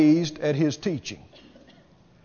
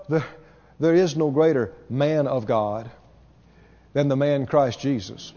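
ordinary talk

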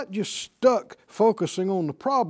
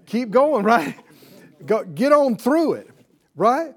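urging call; 3 semitones higher, 6 dB louder than usual. Acted. Urging the congregation on.

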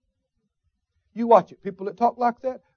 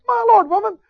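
high, loud exasperated cry; shocked outburst; 8 semitones higher, 5 dB louder than usual. Retold or imitated. Missionary scolding the woman for throwing the ice cream, high and shocked. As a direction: cry out in disbelief at the waste.

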